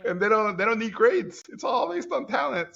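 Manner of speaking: high-pitched excited mimicry; giddy boasting. Acting out his gleeful teenage self.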